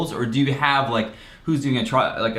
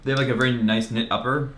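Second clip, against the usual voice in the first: talking through hiccups; hiccuping between words. Real, not acted. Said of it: "I have the hiccups".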